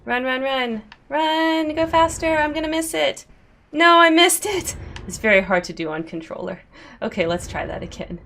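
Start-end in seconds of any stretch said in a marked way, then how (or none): 0.0-4.8 high, urgent excited shouting; yelling while running away. Real, not acted. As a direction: hurry them on, breathless and loud. Racing to catch the lift.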